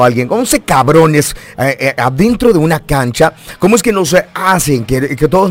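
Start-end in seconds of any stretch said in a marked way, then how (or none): 0.3-1.3 each word spelled out slowly; slow, deliberate. Real, not acted. Host choosing his blunt words carefully, slow and deliberate. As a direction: drag out "once cabrones" on purpose. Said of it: "lo voy a decir así".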